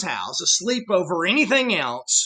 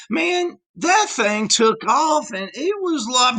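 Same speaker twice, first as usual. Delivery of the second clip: excited caveman. Pretend. Caveman telling of the horse.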